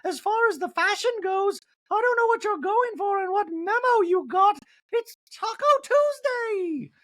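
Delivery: high catty mockery; Dorit impression. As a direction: sneer at the outfit in falsetto. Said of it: "Dorit in the talking head goes".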